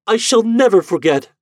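high, loud vow; anguished cry. A narrator's reading. Lady vowing to the ghost, high and anguished. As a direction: swear it, voice lifted high in anguish. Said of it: "she cried".

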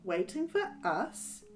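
stammering. Acted. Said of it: "Abby stammers".

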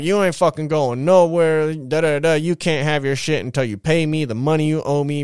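bossing him, refusing to let him leave; imitating a domineering sister; sister's power trip. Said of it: "going off on this power trip".

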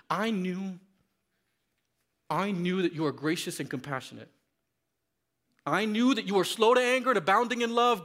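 Jonah's angry prayer. Acted. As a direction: spit each line like a furious prophet. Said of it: "And in his rage, he prayed".

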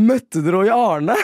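a hint of an eager Harstad lady; local woman's question. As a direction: play the lady in the crowd asking, mildly voiced. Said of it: "sier hun bare sånn".

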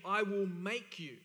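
slow, firm weight on "I will make you"; emphatic promise. Acted. Preacher voices God's promise, emphatically. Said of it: "This is emphatic language".

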